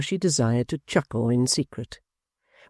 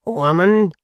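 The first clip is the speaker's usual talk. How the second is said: pompous apprentice; 6 semitones higher, 7 dB louder than usual. A narrator's reading. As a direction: warn her grandly.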